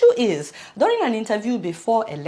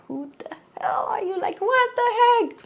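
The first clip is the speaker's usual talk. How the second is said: upset retort; 12 semitones higher than usual. Retold or imitated. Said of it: "South Africans were so upset".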